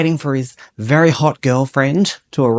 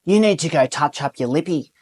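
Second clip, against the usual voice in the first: lightly voiced blokey comment rising higher; cheeky ocker remark to girlfriend; ogling Aussie bloke; 5 semitones higher than usual. Improv bloke critiquing girlfriend's makeup, mild ocker. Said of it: "you comment".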